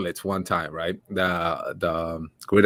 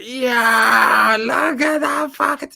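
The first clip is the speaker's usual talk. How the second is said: high, laughing jeer from the back; teasing call-out; mocking jeer; 10 semitones higher, much slower than usual. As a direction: heckle him laughing. Friends mocking from background.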